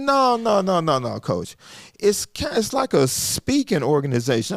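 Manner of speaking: lightly imitated Southern drawl. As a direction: correct him in a Southern drawl. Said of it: "a strong Southern drawl".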